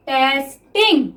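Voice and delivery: stretched very slowly while writing; drawn-out word. Shown as a demonstration. Teacher writing shorthand for students, word stretched slowly. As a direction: draw the word out as you write it. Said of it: "teacher sounds the word out while writing".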